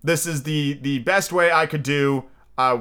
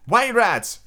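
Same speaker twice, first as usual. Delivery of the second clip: put-on high-pitched, excited boy's guess; high, gleeful exclamation; inspired cry; 10 semitones higher, 3 dB louder than usual. A narrator's reading. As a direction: blurt it out like an eager child. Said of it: "cried Nibs, inspired".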